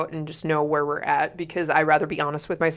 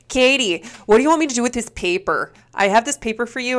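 put-on higher, hurried Northern accent; quick mock Northern accent, pitched up; mom's Northern accent; 5 semitones higher than usual. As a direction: imitate a fretting Northern mom. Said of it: "a very northern accent".

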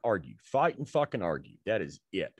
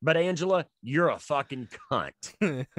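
mock insult; 5 semitones higher than usual. Punchline insult to girlfriend.

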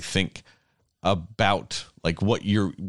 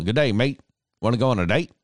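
mock Aussie pick-up line, pitched a bit up; lightly hammed Australian come-on; Australian accent; 4 semitones higher than usual. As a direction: greet them as a fake Australian. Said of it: "that accent".

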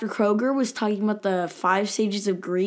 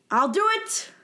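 eager Monk. Retold or imitated. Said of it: "And Monk is like".

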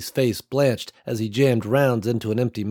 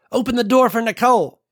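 shouted order; 12 semitones higher, 5 dB louder than usual. A narrator's reading. Ruby orders Walt over gunfire.

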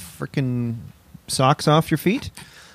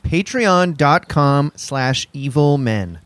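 slow ad read; slower than usual. Shown as a demonstration. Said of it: "plugging the Patreon address".

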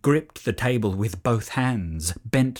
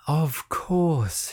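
generous tone; 2 semitones higher than usual. A narrator's reading. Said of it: "in her own generous tone".

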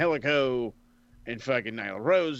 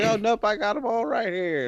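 high, louder smug put-on voice; mocking Vicky; 11 semitones higher, 5 dB louder than usual. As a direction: gloat like you kept every voucher. Mimicking Vicky hoarding vouchers.

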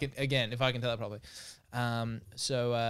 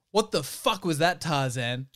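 outraged yell; 4 semitones higher, 4 dB louder, slower than usual. Acted. Jane after kick, in pain.

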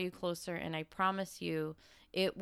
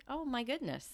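mock exasperation, pitched up; higher-pitched, put-upon quote; exasperated; 6 semitones higher than usual. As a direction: retell an exasperated reaction to a sigh. Reacting to husband's sigh, eye-roll.

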